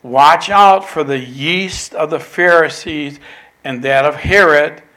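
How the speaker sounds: loud, emphatic caution; warning. Retold or imitated. Jesus warning disciples about the Pharisees, loud and emphatic. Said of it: "Jesus warned".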